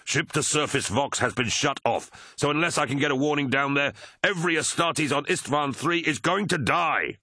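high, desperate, urgent warning; frustrated screaming. A narrator's reading. Pilot warning that everyone below will die, frantic. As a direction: build to a high cry on the last words. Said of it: "screamed Tarvitz in frustration".

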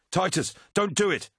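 high, desperate warning; acted shout. A narrator's reading. Crewmate stopping Titus taking the shot, shouted. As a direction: cry out to stop them, pitch way up. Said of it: "shouted Arukin".

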